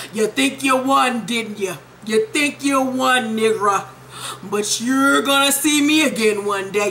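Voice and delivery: slow, drawn-out villain threat; hammed-up sore loser promising revenge; villainous husband. Acted threat from the losing husband.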